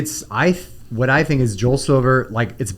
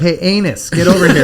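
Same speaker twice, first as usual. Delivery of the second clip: loud call; 5 semitones higher, 5 dB louder than usual. Retold or imitated. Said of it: "They're like".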